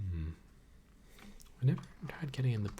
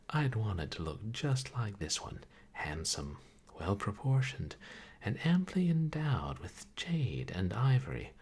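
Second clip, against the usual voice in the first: grand, relishing descriptive read; story narration; 4 dB louder than usual. Acted. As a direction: savour the lavish description. Reading game narration.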